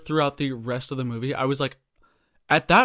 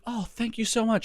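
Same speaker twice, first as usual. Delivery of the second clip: fake rich lady; 8 semitones higher than usual. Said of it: "She's like".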